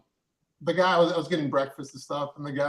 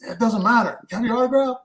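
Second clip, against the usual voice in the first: put-on New York accent; 6 semitones higher, 4 dB louder than usual. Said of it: "thick Nor-, New York, uh, accent".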